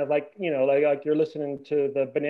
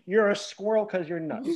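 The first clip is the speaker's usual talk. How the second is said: mocking quote; 4 semitones higher than usual. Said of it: "It did not need".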